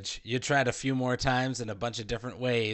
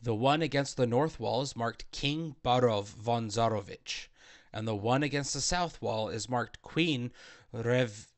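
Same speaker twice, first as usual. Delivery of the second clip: game master narration. A narrator's reading. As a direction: set the scene like a dungeon master. GM reads room description.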